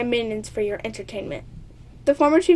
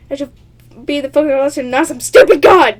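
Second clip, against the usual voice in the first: mock indignant dragon; 10 dB louder than usual. Dragon indignant at rival god.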